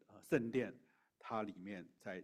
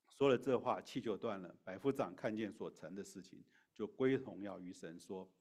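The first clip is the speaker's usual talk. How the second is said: louder, declaimed Bible reading; scripture reading; 5 dB louder than usual. Acted. Preacher reads the crucifixion account to listeners, declaimed scripture reading. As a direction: read the passage out firmly to the congregation.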